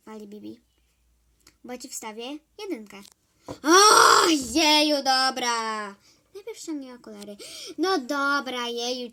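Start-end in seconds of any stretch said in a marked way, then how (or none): 3.5-5.9 whiny give-in. Acted. Kid whines after threat.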